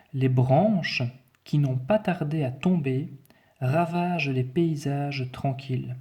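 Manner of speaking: measured, carefully articulated dictation; dictation reading. Shown as a demonstration. Teacher reading the text to pupils, careful dictation voice. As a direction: read it out phrase by phrase with pauses.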